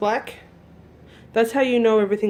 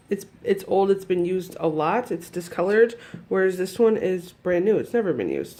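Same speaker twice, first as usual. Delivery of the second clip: morning voice. Real, not acted. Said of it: "sorry about my voice".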